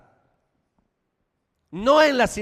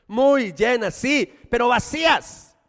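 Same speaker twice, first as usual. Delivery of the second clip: preaching shout; 4 semitones higher, 4 dB louder, slower than usual. Acted. Preacher contrasts full and empty churches.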